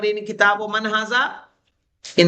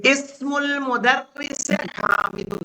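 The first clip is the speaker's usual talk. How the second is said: slow, careful classroom reading; slow Arabic reading; 5 semitones higher, much slower than usual. Shown as a demonstration. Teacher reading an Arabic example to the class, slowly. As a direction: read each word out for the pupils to follow. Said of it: "آئیے دیکھیے".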